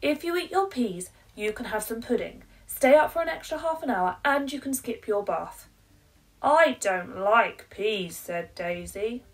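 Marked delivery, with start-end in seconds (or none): 0.0-5.7 higher, louder and fast bargaining; pleading mum. Acted. 6.4-8.2 slow, loud flat refusal; stubborn child. Acted.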